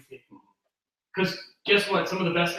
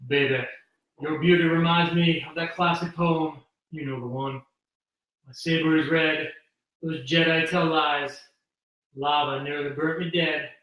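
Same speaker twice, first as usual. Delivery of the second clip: lightly voiced smooth charmer, unhurried with pauses; measured pickup-line delivery, a hint of smooth seducer; Lando. Guest reading a Star Wars pickup line on request, lightly smooth. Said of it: "in your best Lando voice".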